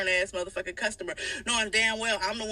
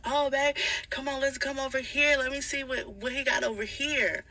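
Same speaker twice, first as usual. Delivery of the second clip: higher, put-on sweet tone to babe; fake sweet voice; 4 semitones higher than usual. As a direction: play innocent, luring him over. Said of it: "So I'm like".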